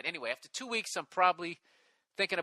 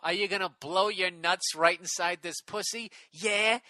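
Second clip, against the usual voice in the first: lightly put-on English accent, raised pitch; mock English accent; 3 semitones higher than usual. Man reading his date's dirty talk, mock English accent. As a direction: play the divorcee in a teasing English accent. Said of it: "she's saying it with the English accent".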